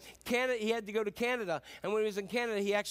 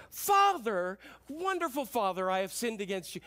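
bigger, more pleading retake of the apology; reworked apology; 3 semitones higher, 4 dB louder than usual. Retold or imitated. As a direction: try it again, lay it on thicker. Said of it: "No, no, no, no".

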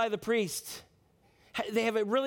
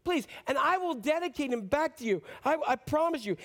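higher-pitched, begging promise; acted plea, voice lifted; pleading prayer; 4 semitones higher than usual. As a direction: plead desperately with God. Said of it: "She probably prayed".

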